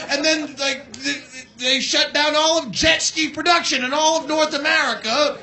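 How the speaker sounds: ordinary delivery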